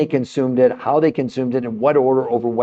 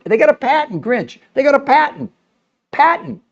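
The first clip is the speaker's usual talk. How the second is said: excited insistence; 11 semitones higher than usual. Real, not acted. Hammers the patent point.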